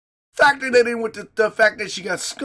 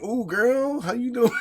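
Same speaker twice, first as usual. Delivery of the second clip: mock flirty; 4 semitones higher than usual. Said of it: "and I'm like".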